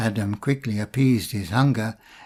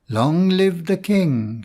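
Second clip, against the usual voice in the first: mild shout; 4 semitones higher, slower than usual. Acted. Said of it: "shouted the courtiers and attendants".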